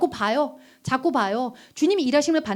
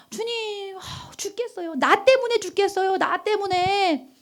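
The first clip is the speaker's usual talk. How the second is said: anguished prayer; 8 semitones higher, slower than usual. Acted. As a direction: start with a hushed high moan, then cry out. Acted prayer of despair at oneself. (괴로움에 겨운 높은 하소연)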